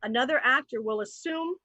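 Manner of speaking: game-show host introducing the game; host announcement. Acted. Introducing the improv game to the audience, host style. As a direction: present it to boys and girls.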